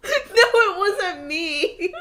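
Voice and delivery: high, loud, drawn-out protest through laughter; cracking up while protesting; real laughing protest, stretched out; laughing denial. Real, not acted. Laughing denial after friend's story.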